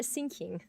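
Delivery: "thinking" said with an s, as "sinking"; mispronounced th. Retold or imitated. Imitating colleagues' bad English, "thinking" with s for th. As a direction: swap the th in "thinking" for s. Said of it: "You're just pronouncing thinking".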